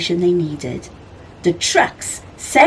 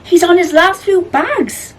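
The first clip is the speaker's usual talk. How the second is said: mewing cat; 10 semitones higher, 5 dB louder than usual. A narrator's reading. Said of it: "mewed Prue".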